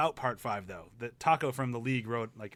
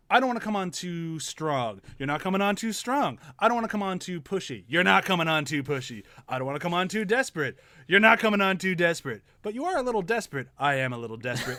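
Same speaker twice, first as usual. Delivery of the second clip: Seinfeld cadence; 4 semitones higher, 5 dB louder than usual. Retold or imitated. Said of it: "that perfect Seinfeld cadence".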